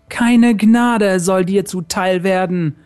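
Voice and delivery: hard. Acted. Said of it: "Hart klangen ihre Worte".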